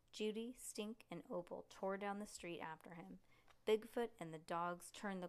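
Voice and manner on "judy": ordinary delivery, nothing marked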